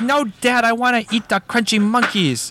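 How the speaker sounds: high-pitched mock child's wail; screaming son. Son demands his breakfast, mock screaming. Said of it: "he's just screaming".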